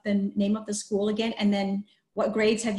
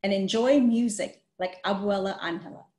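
even, read-aloud storybook voice; story narration. A narrator's reading. Teacher reading a picture book to children, storytelling voice.

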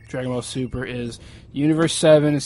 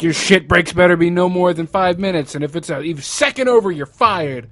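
raised, hard-driving threat; barking boss; 3 semitones higher, 6 dB louder than usual. Retold or imitated. Retelling a boss threatening toy store staff, mock angry. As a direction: lay down the law as a tyrant boss.

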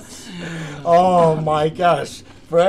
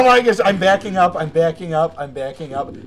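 panicked, then trailing off; backing away in a panic, voice dropping; panicked, fading; 4 dB louder than usual. Real, not acted. Panicked retreat in game.

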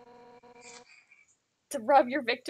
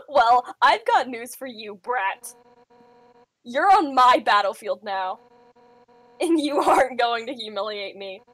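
menacing Undyne voice; 6 dB louder than usual. Acted. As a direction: growl it like a rival on home turf. Voicing Undyne as host.

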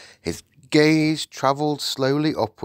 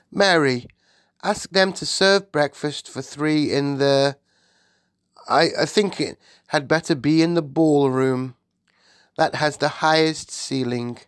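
higher-pitched regal orders; composed Queen; 6 semitones higher, 3 dB louder than usual. Acted. Queen instructs her maid, composed and regal. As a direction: instruct the staff, thinking as you go.

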